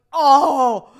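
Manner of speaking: a loud, high, flat "Oh."; stunned reaction to the boyfriend's cough syrup excuse; exasperated oh. Retold or imitated. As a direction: let the realization land with a sigh of annoyance.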